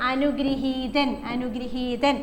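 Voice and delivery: അനുഗൃഹീതൻ said very slowly, syllable by syllable; slow dictation. Shown as a demonstration. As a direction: spell it out for writing. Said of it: "repeated dictation". (പതുക്കെ ഉച്ചരിക്കുന്നു)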